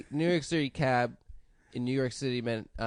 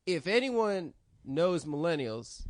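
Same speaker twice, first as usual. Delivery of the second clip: Steve Harvey joke; slower than usual. Retold or imitated. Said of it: "I'm gonna do Steve's joke".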